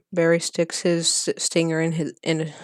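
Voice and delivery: breathless, gasping reading; winded and puffing between words; out of breath. Real, not acted. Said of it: "sorry, I'm kind of out of breath".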